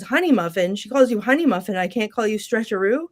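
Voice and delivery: lightly acted bickering retort; mildly indignant questioning, imitated; mock incredulous. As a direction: retell it with a touch of disbelief. Retold bickering, mocking a pet name.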